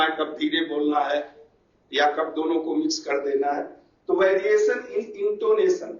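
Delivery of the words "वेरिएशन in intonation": slow dictation. Shown as a demonstration. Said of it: "I N T O N A T I O N".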